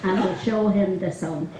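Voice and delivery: a light put-on Dublin accent, laughing through it at times. Retelling a Maureen Potter sketch to the golf club, lightly Dublin accent. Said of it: "So I'm gonna put on the best Dublin accent".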